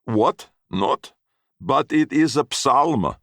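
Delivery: put-on old man's high, astonished voice; surprised. A narrator's reading. Gradi, amazed Fred never learned the psalm, surprised. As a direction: sound truly taken aback.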